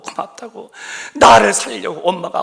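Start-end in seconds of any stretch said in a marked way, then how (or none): 0.0-0.7 고맙다고 breathed as a soft whisper, higher; whispered echo. Shown as a demonstration. Preacher echoing the son's thanks to his mother in a whisper. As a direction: let 고맙다고 fade into a whisper. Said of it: "엄마 고맙다고".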